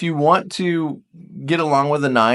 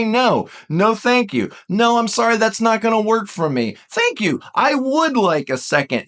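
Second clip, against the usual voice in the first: polite refusal; 5 semitones higher than usual. Pretend. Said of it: "okay for you to say".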